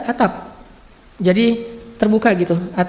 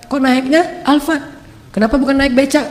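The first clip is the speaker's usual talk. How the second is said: mock whining lament; 3 semitones higher than usual. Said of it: "wajah orang yang sedih terus".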